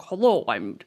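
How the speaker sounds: lightly put-on, awful American accent; Benedict Cumberbatch's American accent. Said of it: "think about anything other than his accent".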